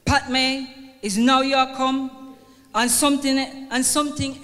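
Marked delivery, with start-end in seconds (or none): 0.1-0.7 light Jamaican patois lilt on Pat May; patois accent. Retold or imitated. Dying mother greeting her visitor, light Jamaican patois. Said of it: "in her patois accent". 1.0-2.4 gently imitated Jamaican patois; a hint of Jamaican patois, as the old mother said it; patois accent. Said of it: "in her patois accent".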